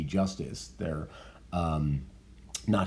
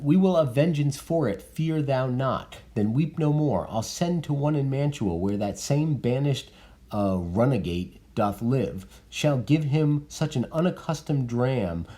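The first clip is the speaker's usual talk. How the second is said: reading Lady Capulet; 5 semitones higher than usual. Acted.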